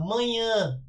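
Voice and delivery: final ã sent through the nose in "Manhã"; nasalized vowel. Shown as a demonstration. Teacher showing what the tilde does, nasalized ã in "Manhã". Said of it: "O som é nasalado".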